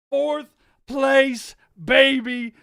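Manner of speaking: loud, happy cheer; excited cheer. Real, not acted. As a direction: celebrate it. Celebrating the standings.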